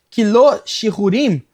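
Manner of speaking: emphatic, measured sacred-text reading; scripture recitation. Real, not acted. Reciting the Hebrew verse aloud.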